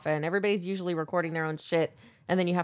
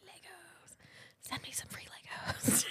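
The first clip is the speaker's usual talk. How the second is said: conspiratorial whisper; 10 semitones higher, 15 dB quieter than usual. Real, not acted. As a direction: whisper the plea like a secret to the listeners. Whispered plea for free Legos.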